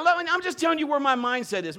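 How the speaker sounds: ordinary delivery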